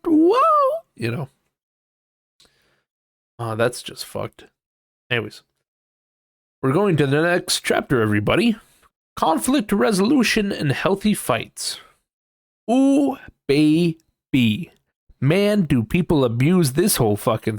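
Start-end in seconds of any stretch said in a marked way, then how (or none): 0.1-0.4 high, loud exclamation; surprised outburst; whoa. Real, not acted. Reacting to own bot parody. 12.7-14.7 very slow, drawn-out relish. Real, not acted. Reading next chapter title.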